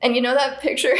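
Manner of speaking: real giggle creeping into the words; starting to laugh. Real, not acted. Friend starting a funny story, starting to laugh. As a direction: begin the story as laughter takes over. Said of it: "I would start laughing too hard".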